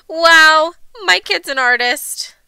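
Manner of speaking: loud drawn-out wow; mother marveling at her child's art; amazed mother. A narrator's reading. Mother amazed by daughter's drawings.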